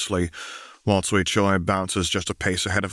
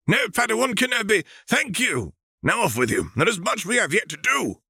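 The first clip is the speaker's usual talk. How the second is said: put-on high, airy voice of an old alien master; alien Jedi master; 13 semitones higher than usual. Thespiasian master briefing Obi-Wan, in a high, stately master voice. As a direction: speak up high like a serene ancient teacher.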